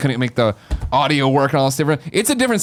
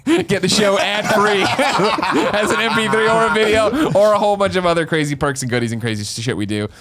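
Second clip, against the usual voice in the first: laughing while talking; 4 semitones higher than usual. Real, not acted. Laughing through ad read.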